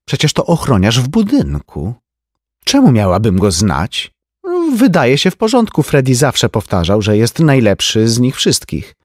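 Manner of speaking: high, lively society lady; a chatty rich woman gossiping; Tenzi's voice. A narrator's reading. (wysoki głos plotkującej damy)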